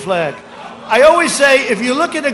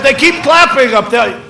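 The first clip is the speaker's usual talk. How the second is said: mock agitated complaint, raised and louder; 4 semitones higher, 5 dB louder than usual. Rival complains about people clapping up there, mock agitated. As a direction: imitate a rival griping at the noise. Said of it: "No, he's very agitated".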